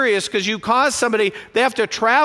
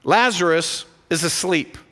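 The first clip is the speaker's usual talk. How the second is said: Jesus speaking gently; 4 semitones lower than usual. Retold or imitated. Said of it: "he tells the disciples".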